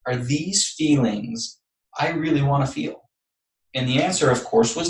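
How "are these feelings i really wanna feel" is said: softer, reflective self-questioning; catching himself. Retold or imitated. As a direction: ask yourself quietly, pulling back from anger. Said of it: "I caught myself".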